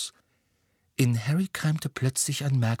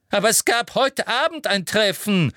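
high, angry insistence; furious; 11 semitones higher, 4 dB louder than usual. A narrator's reading. Umbridge insists there was a meeting, furious. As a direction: protest angrily, voice pitched right up. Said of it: "sagte Umbridge wütend".

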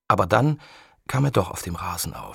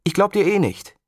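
teasing disbelief; 10 semitones higher, 5 dB louder than usual. Acted. Girl taunts from swing.

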